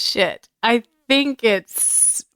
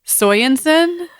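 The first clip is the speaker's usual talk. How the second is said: laughing drawn-out name; 7 semitones higher, 3 dB louder, much slower than usual. Real, not acted. Drawn-out silly ship name.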